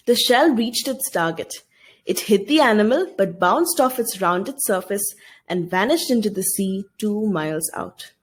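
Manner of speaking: lightly dramatic classroom reading; story reading. Acted. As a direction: read the passage like a storyteller to the class. Teacher reads next passage.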